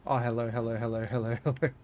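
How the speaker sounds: lightly mock a chatter reading his own typing; Aussie Aurora impression. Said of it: "if Aussie Aurora was saying what he was typing aloud".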